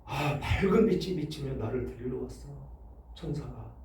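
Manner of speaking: low, soft imitation of dying words; 평온한 임종 고백 흉내. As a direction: quietly voice a believer's peaceful last words, fading. Dying believer's peaceful words acted. (낮고 조용하게 읊조리는 임종 흉내)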